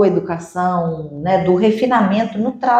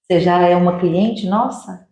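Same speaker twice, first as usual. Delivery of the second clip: welcoming greeting; 2 semitones lower than usual. Shown as a demonstration. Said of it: "Isso é acolher".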